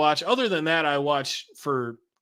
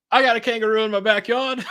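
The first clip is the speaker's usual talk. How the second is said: high, loud mock Australian voice; horrible Australian accent; 7 semitones higher, 5 dB louder, faster than usual. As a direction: put on a badly faked Australian accent. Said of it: "I did a horrible Australian accent".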